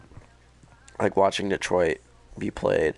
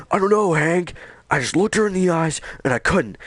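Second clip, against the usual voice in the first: high flustered mock panic; 10 semitones higher, 4 dB louder than usual. Connor freaking out.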